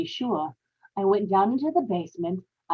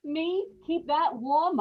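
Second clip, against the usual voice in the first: disgusted; 6 semitones higher, 5 dB quieter than usual. Acted. Ella recoils at nursing the mother-in-law.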